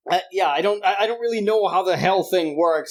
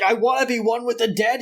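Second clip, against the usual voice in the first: higher, preachy ranting dad; imitating a zealous father, raised pitch; Bible thumper; 6 semitones higher than usual. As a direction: hold up the lyrics like scripture. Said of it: "crazy Bible thumper".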